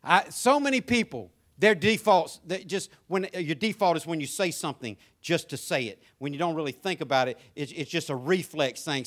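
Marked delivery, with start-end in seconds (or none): none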